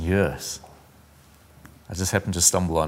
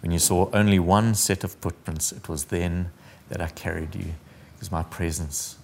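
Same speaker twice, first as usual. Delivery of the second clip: poem reading. Acted. The Lord reassuring the dreamer, gently read. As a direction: let the promise settle down to a hush.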